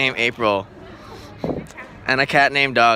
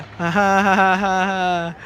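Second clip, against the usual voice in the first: slow, stiff imitation of a friend's laugh; awkward laugh; 4 semitones higher than usual. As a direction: do her clumsy little laugh. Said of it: "That, that's how Cat laughs".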